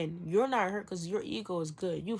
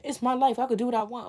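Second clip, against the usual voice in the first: loud, higher-pitched comeback; mock defiance; 4 semitones higher, 6 dB louder, faster than usual. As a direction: voice an ego insisting on its freedom. Acting out defiant ego reply.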